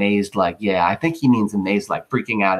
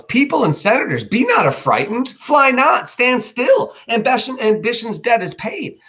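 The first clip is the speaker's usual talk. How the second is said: high, loud calming call over panic; loud urgent plea to stand still; yelling Brutus; 12 semitones higher, 3 dB louder than usual. Acted. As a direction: yell to the fleeing crowd. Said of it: "Brutus yells".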